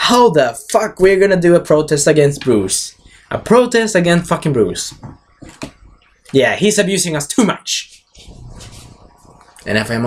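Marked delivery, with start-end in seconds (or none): 0.1-8.0 lightly acted indignant complaint, pitched up; rally the others in mock outrage; higher-voiced mock protest; protesting Alfreds. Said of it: "other Alfreds from other dimensions saying".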